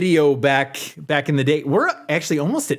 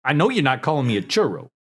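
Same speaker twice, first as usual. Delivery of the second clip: mock threatening; faster than usual. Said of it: "four different voices in one".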